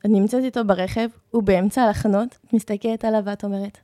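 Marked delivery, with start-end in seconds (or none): none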